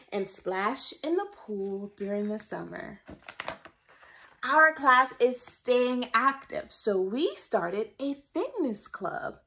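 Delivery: put-on lively, sing-song read-aloud for kids; animated story-time reading; reading to children. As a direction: read it like a picture book to a class. Reads picture book to children.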